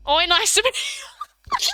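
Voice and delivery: high, slow, hammed-up Aussie accent; rural Australian. Mimicking rural Australians saying hello, exaggerated high Australian accent. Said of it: "some of us do sound like that".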